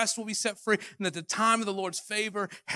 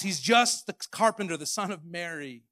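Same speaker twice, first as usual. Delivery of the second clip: scoffing. Retold or imitated. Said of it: "They scoffed".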